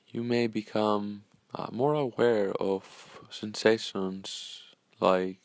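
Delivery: calm, unhurried meditation guide with long pauses; measured, soothing guidance, leaving space after each phrase; guided meditation. Acted. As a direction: gently lead listeners into breathing and stillness.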